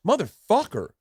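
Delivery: high-pitched exclamation of being had; mock outraged realization. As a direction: curse as the trick dawns on you. Mock reaction to being tricked into jokes.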